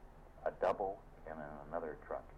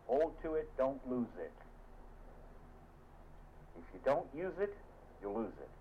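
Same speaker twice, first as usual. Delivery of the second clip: exhorting; 7 semitones higher than usual. Acted. Preacher exhorting the congregation.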